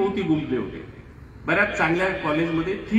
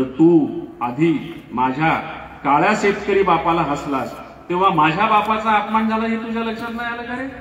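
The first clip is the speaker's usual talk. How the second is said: stern rebuke; 3 dB louder than usual. Retold or imitated. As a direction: bear down on the boy's insult. Teacher rebukes insulted student. (शिक्षक विद्यार्थ्याला रागाने, ठामपणे सुनावतो)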